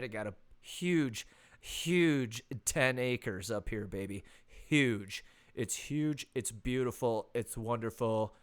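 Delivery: a hint of Trump, dragging out huge; lightly hammed-up Trump brag; boasting about the land, mock Trump; Trump impression. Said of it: "that was my best Trump impression".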